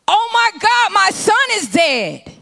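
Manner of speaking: high, shocked cry over her dead son; shocked mother. Acted. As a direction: gasp it out in disbelief.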